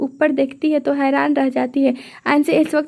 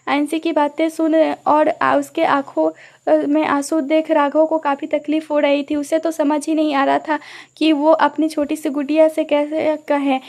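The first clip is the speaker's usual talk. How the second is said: usual speaking voice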